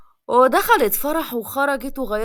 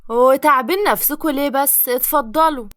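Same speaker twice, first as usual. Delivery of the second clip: effusive welcome; 7 dB louder than usual. Acted. Hostess greeting guests warmly loud.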